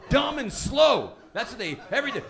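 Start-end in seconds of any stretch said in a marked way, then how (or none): 0.1-1.2 slow, loud and higher drawl; slow and dumb. Shown as a demonstration. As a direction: drag it out like a dull teenager.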